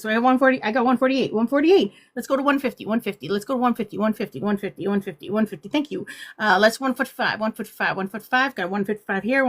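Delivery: rapid-fire mock auction patter; auctioneer voice. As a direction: call out the bids like a playful auctioneer. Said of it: "I'm gonna start doing my auctioneer voice".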